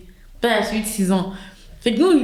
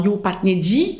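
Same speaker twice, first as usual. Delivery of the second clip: demonstrating Montreal street slang accent; slower than usual. Shown as a demonstration. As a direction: drop into Montreal slang talk. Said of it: "quelqu'un de la culture comme montréalaise".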